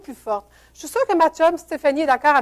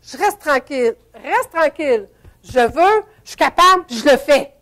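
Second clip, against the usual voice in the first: from calm command to louder triumph; building self-pep talk; 4 dB louder than usual. Shown as a demonstration. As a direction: pump yourself up, louder each phrase. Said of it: "Je vais vous faire une petite démonstration".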